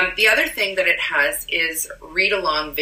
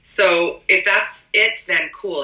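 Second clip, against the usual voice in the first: husky, raspy voice from a cold; hoarse voice. Real, not acted. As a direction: speak through a chesty cold rasp. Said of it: "I have a sexy smoker's voice from my cold".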